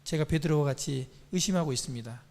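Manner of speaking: soft, low, humble praying voice; demonstrated prayer. Shown as a demonstration. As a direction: model a hushed confession of doubt. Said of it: "주님께 기도하세요".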